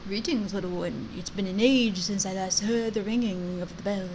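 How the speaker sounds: lightly voiced old wise stag; stag character voice. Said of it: "and there's a stag".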